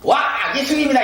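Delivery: hammed-up happy exclamation; mock excited shout. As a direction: imitate disciples crying out on spotting their teacher. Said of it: "소리 질러요".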